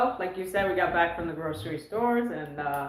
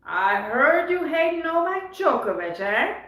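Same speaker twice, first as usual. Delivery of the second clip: slow, higher-pitched imitation of a Serbian accent; 6 semitones higher, slower than usual. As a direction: imitate her Serbian accent, stretching the words. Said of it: "she said in her accent".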